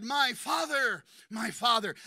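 loud heartfelt cry. Acted. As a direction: call after a departing father. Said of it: "Elisha said".

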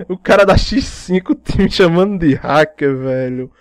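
laughing. Real, not acted. Laughing at being called hacker.

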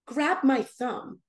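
slow, measured instruction; Jesus's voice. Retold or imitated. Jesus speaking to her at the altar, slow and deliberate. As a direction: say it slowly and plainly, as a divine command. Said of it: "I hear his voice say".

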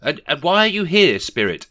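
high, loud, stammering ask; nervous question. A narrator's reading. Rishi asks the ghost why she came, high and stammering. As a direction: stumble out the question in fright. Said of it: "inquired Rishi Scrooge".

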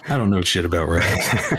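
saying it again through a laugh; chuckling while repeating the line. Shown as a demonstration.

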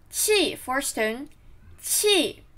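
砌 said with a sharp falling tone; fourth tone. Shown as a demonstration.

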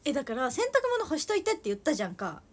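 Toyama dialect, scolding mom. Pretend. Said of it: "ママと今喋ってる気持ちで喋りますね".

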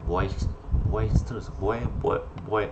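halting attempts at "boisterous"; unsure pronunciation. Real, not acted. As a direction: try "boisterous" in broken-off starts, repeating the first syllable. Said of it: "I don't know how to pronounce the name".

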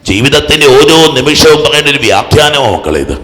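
loud, emphatic preaching; impassioned preaching. Real, not acted. Preacher explains Matthew's gospel to the faithful, impassioned preaching. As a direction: press the point on the congregation.

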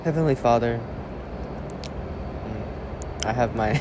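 speaking around a retainer; mumbled words with a retainer in; wearing a retainer. Real, not acted. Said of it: "I have my retainers in".

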